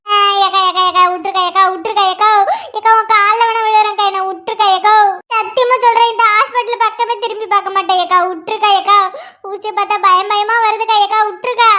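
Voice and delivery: frantic pleading to be let go; breathless stream of scared pleas; fearful clamouring. Acted. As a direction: beg noisily in fear of the needle. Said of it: "Narmada, கத்தாத".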